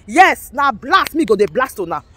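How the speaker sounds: slow, deliberate yes, now blast; slow threat. Real, not acted. Warning agitators she will blast them, slowly. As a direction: draw out the threat.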